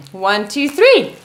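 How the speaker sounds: building count, loud on three; lifting count. Real, not acted. Counting off a joint lift.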